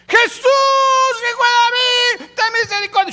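very high, full-force scream; desperate shouting. Acted. Blind man calls to Jesus, high desperate yell. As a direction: scream it out, stretching the words. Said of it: "Cuando aquel ciego gritaba".

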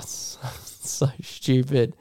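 soft slow whisper. Real, not acted. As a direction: breathe it out, amused. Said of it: "whispered aside".

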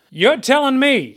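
high, drawn-out exasperated comeback; acted indignant retort. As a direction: stretch it out, fed up and high-pitched. Exasperated detective retorts to visitors.

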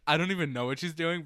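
high put-on screaming mom; mock mom voice.

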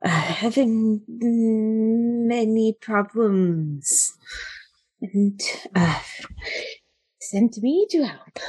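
high, halting little creature; small nervous creature pleading for help; tiny creature voice. Acted. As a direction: squeak it out like a small scared critter.

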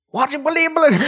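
put-on high-pitched garbled cave language in a Southern hick accent; Southern hick caveman. Player imitates Herc in Far Cry Primal, Southern hick caveman babble. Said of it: "talking in this language with this, like, Southern hick accent".

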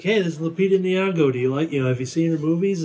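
high, pushy shouting TV host; imitating a host who shoves a mic at a stranger; mock shout. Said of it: "he's basically shouting at them".

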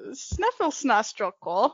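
"Sneffelsnastrokol" drawn out slowly as an Icelandic place name; tentative, slow Icelandic attempt at "Sneffelsnastrokol"; attempted Icelandic pronunciation. Shown as a demonstration. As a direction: sound out "Sneffelsnastrokol" carefully, Icelandic style. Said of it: "how's your Icelandic pronunciation?".

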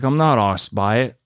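imitated Scouse accent; lightly put-on Liverpool accent; Paddy the Baddy. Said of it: "a Scouse accent".

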